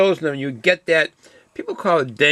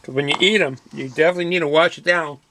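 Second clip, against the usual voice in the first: talking while chewing chips; crunching chips. Real, not acted. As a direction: mouth full of crunchy snack. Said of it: "Excuse my crunching, my chomping".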